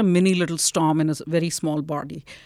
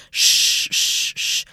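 rhythmic shushing; 4 dB louder, much slower than usual. Shown as a demonstration. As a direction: shush gently like calming an infant. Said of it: "a fairly natural thing that parents will do".

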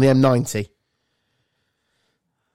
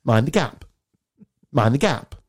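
tube announcer. Pretend. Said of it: "I want the job on the tube".

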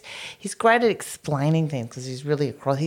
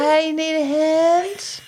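mock casual offer; 13 semitones higher, 3 dB louder, much slower than usual. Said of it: "it's like".

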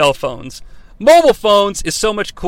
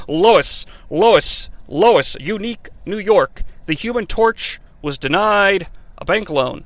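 voice warm-up. Shown as a demonstration. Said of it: "now that I have my Tony Schiavone voice down".

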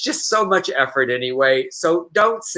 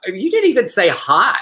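incredulous mock scolding, rising on the questions; lightly hammed-up offended lecture; mock indignant scolding. Host scolding a stranger who sent an unwanted video, mock indignant.

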